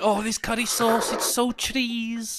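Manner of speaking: hammed-up Welsh, drawing out the end; jokey Welsh caricature; mock Welsh accent. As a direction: put on a Welsh accent, stretch the last words. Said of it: "Fuck the Welsh".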